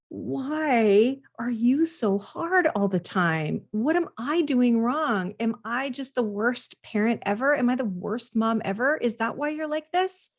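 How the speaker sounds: exasperated parent doubting herself; anguished self-questioning. Acted.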